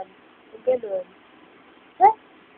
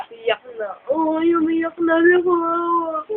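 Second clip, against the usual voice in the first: mock crying pity; 4 semitones higher than usual. Parent mock crying with baby.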